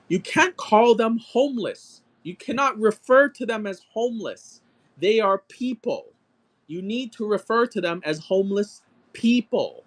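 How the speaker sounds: mock the stern English teacher scolding. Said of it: "She's like".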